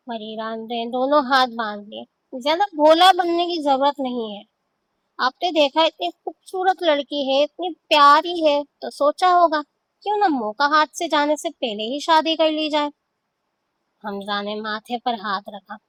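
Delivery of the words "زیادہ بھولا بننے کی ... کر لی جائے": accusing. Acted. Wife accuses husband heatedly.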